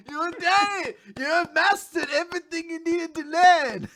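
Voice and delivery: high, loud proud declaration; triumphant mentor. Retold or imitated. Host voices the interviewer praising her, high and loud. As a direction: proclaim it like a beaming master.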